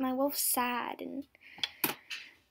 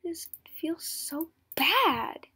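mock sad; 3 semitones higher, slower than usual. Playing sad for the theme.

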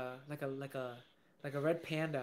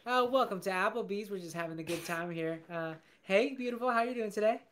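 restaurant host patter; 3 semitones higher than usual. Shown as a demonstration. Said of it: "Keep going, keep going".

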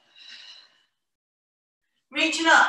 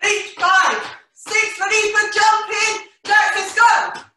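loud, high hype call; rally the class loudly; 4 semitones higher, 4 dB louder than usual. Real, not acted. Instructor calling out energetically.

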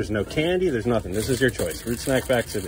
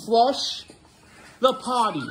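high sing-song "Flush the potty"; 10 semitones higher, much slower than usual. Shown as a demonstration. Dad prompting son to repeat after him, sing-song. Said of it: "Say it with me".

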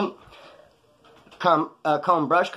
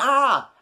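mock scream; 10 semitones higher, 4 dB louder than usual. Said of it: "She starts screaming".

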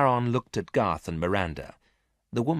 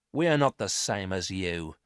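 coldly. Acted. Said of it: "said Miranda coldly".

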